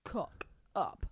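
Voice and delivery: whispered reply, low. Acted. Cohost whispering back the segment name. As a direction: answer in a hushed breath.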